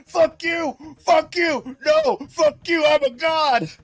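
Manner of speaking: high-pitched mock screaming; screaming at audience. Cyrax cursing out the studio audience, hammed-up screaming. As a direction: yell it in bursts, hammed-up and far above your voice. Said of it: "like, screaming at the audience".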